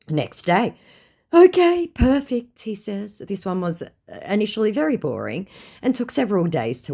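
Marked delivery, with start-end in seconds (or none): 1.3-2.6 high, loud chirpy okay; cheerful fake agreement; mock scammer. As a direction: play the clueless scammer. Scammer's reply voiced.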